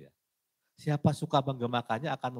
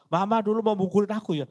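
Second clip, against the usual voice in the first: a high, loud accusing cry at mother; accusing child; 12 semitones higher, 9 dB louder than usual. Retold or imitated. Child accusing mother of wanting to hit them, loud and high. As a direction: throw the blame at mama, loudly. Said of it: "Jangan bilang".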